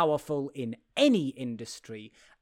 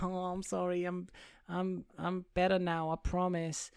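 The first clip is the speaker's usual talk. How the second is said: soft, slightly raised apologetic voice; mock-contrite, small and quiet; meek apology; 3 semitones higher, 8 dB quieter than usual. Retelling her apology to the boyfriend, meek and soft.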